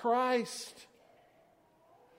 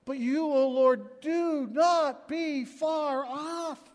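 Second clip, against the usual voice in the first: slow pleading cry; 3 semitones higher, slower than usual. Acted. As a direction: plead every word slowly. Pleading verse.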